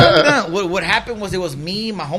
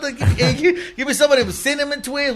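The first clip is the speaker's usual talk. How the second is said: shouted orders; 9 semitones higher, 5 dB louder than usual. Retold or imitated. Robbery orders at Taco Bell.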